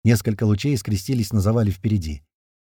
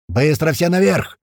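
slow, louder yelled order; yelling; 5 semitones higher, 3 dB louder than usual. A narrator's reading. April yelling at the squad to climb. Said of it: "снова орёт Апрель".

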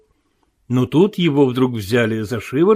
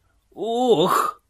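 drawn-out moaned "oh", pitched up; 5 semitones higher than usual. A narrator's reading. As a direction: let out an acted groan of dismay. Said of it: "простонал Марвел, побледнев". (протяжный стон)

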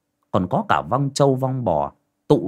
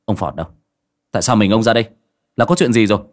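urgent questions, growing louder; pressing questions; 5 dB louder, much faster than usual. Acted. Tẩy pressing the panting Lâm Sẹo, growing louder. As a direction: fire the questions one after another. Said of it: "Cậu Tẩy hỏi dồn".

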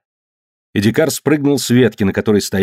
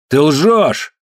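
higher-pitched, moderately raised accusation; accusing cry; 6 semitones higher than usual. A narrator's reading. Tombol interrupts Jim Lane's story, mild accusing shout. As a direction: cry out the accusation, short of yelling. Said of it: "закричал Томбол".

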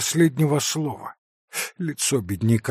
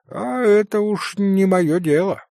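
smirking; 7 semitones higher than usual. A narrator's reading. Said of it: "усмехнулся доктор".

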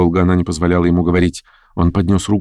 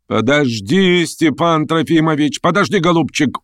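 высокий, протяжный ласковый уговор; уговаривай больного, как малое дитя; уговаривает, как ребёнка; 9 semitones higher than usual. A narrator's reading. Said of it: "уговаривала она его, как ребёнка". (ласково уговаривая, высоким голосом)

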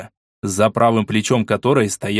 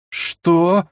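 almost shouting; 8 semitones higher, much slower than usual. Acted. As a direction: nearly scream it in disbelief. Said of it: "практически прокричала Фредерика".

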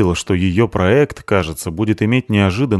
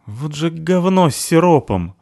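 higher, slow scornful line; disgusted remark; 8 semitones higher, slower than usual. Acted. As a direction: spit it out in disgust. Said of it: "брезгливо сказала".

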